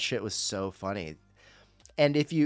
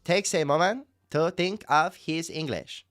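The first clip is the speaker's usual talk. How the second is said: put-on higher-pitched, careful foreign-accented English; Adnan; 4 semitones higher than usual. Streamer explaining his reality-show impression in that voice, careful accented impression. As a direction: impersonate a man picking his English words carefully. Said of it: "I'm just doing an impression of that guy".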